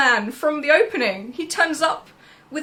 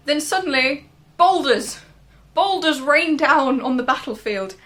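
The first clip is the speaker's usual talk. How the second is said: higher and louder, a mock-dramatic announcement; dramatic reveal; 4 semitones higher, 7 dB louder than usual. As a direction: play up the sudden twist. Dramatic plot twist.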